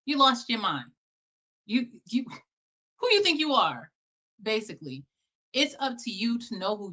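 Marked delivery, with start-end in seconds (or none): 0.0-3.9 mocking naysayer. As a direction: sneer it like someone tearing you down. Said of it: "They're gonna do the work to tell you".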